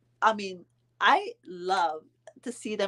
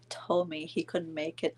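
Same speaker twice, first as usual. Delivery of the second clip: dropping to a hushed, softer voice; 4 semitones lower, 8 dB quieter than usual. Real, not acted. Telling viewers about her dad, suddenly hushed. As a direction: go quiet on the hurtful news. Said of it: "I don't know why I'm whispering like this".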